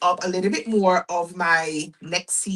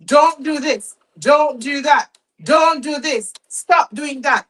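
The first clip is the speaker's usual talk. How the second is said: firm mock scolding of the kids, a bit louder; 4 semitones higher, 4 dB louder than usual. A mother imitating how she scolds her arguing kids, mock firm scolding. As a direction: snap out the rules like a tired mum.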